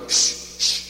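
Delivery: unvoiced shh, shh for page after page; hushing through a book of poems; repeated mock hushing. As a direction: breathe shh after shh like turning pages. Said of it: "and you go".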